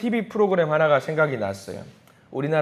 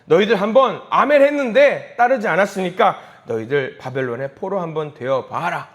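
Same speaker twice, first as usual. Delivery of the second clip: loud, raised rebuke, easing off at the end; indignant God; 2 semitones higher, 5 dB louder than usual. Acted. God rebuking people who broke their amen, indignant. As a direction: act out God fed up and scolding. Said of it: "하나님이 괘씸하신 거예요".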